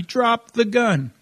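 imitating a slow, insistent order; retold yell. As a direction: draw out a shouted command, at half volume. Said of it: "he's yelling at me".

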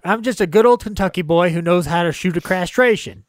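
put-on proud good old Kentucky boy; Kentucky accent. Todd boasting he can shoot a castration, in a light Kentucky accent. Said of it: "that was my best Kentucky accent".

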